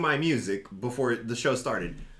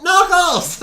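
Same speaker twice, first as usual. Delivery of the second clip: high, loud drawn-out holler of a name; yelling kid; 11 dB louder than usual. Retold or imitated. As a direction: yell it like a kid calling from a stage. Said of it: "this kid starts yelling from the stage".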